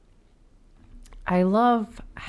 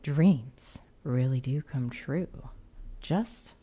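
tagline read; 6 dB quieter, much slower than usual. Pretend. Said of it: "what about an alternate tagline".

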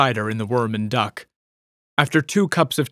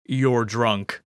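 disapproving. A narrator's reading. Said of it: "he added disapprovingly".

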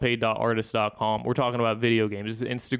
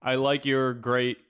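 bot comment voice; slower than usual. Retold or imitated. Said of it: "poor grammar post".

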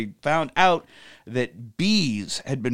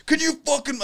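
high, excited Southern ranting; pitched-up Southern gossip voice; Southern man impression; 12 semitones higher, 3 dB louder than usual. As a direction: tell the whole line of strangers in a Southern accent. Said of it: "So he's a Southern man".

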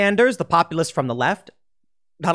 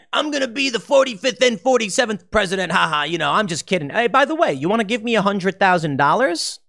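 lightly voiced, teasing Trump impression, higher; mock Trump voice; 4 semitones higher than usual. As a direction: play Trump winking at his donors. Mocking Trump's coy hint.

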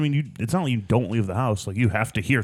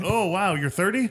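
high, put-on astonishment; hammed-up surprised interviewer; mock amazement; 9 semitones higher than usual. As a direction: act amazed in a raised pitch. Carries on the amazed surveyor bit.

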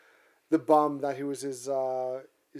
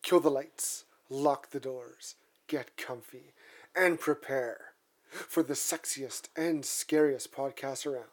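spooky host intro; slower than usual. Acted. Spooky show opening.

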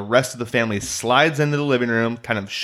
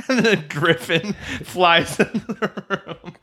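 Peter Griffin voice; 7 semitones higher, slower than usual. Retold or imitated. Peter hiding his identity.

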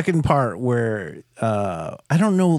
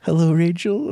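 duck voice; 5 semitones higher than usual. Retold or imitated. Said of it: "why is he doing a duck voice".

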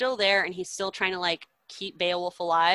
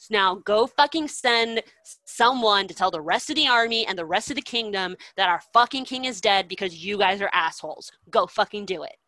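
furious order; 4 dB louder than usual. Retold or imitated. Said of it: "he's just, like, furious".

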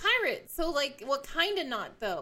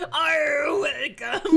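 gruff pirate captain welcome; Captain Barbossa; 4 dB louder, much slower than usual. Pretend. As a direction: growl it like an old sea captain. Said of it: "Like, fucking Captain Barbosa".

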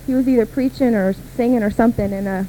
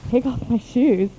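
a confused question, pitched up in disbelief; puzzled echo; slower than usual. Retold or imitated. Girl echoing the pastor, baffled and questioning. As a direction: repeat "Take off my shoes?" as a bewildered question. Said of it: "And I'm like".

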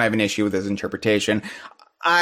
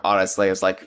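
normal talking voice

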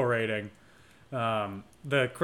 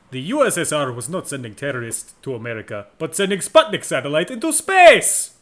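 put-on fast, hammy Russian accent, louder at the end; bad Russian accent; 4 dB louder than usual. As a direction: overdo a cheesy Russian accent. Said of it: "I'm doing a really bad Russian accent".

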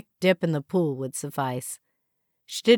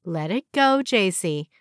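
stern warning; 2 semitones higher than usual. Acted. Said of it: "Marianne warned with a stern look".

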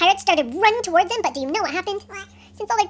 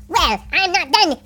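slow, hammed-up pirate defiance; defiant villain; 4 dB louder, much slower than usual. A narrator's reading. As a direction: draw it out like a storybook villain. Villain defies the heroes.

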